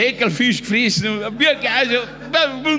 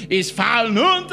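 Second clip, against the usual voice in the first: higher-pitched mock yell; retold yell; 4 semitones higher than usual. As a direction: imitate Adi hollering an insult. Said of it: "schreit er um und sagt".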